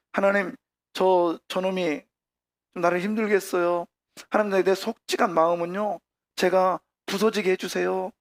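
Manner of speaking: lightly acted plain-spoken pleading; demonstrated frank prayer. Shown as a demonstration. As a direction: confess it frankly, like tattling to God. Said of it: "이렇게 기도하라고요".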